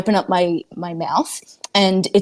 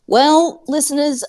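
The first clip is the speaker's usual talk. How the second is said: mock grand announcement; 7 semitones higher than usual. Mock grand address to listeners.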